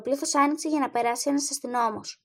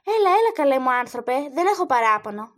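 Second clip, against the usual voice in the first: pleading; 6 dB louder than usual. Acted. Woman frantically backs down.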